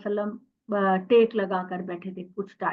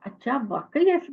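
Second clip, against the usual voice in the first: surprised disbelief; 4 semitones higher than usual. Retold or imitated. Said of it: "मैंने कहा".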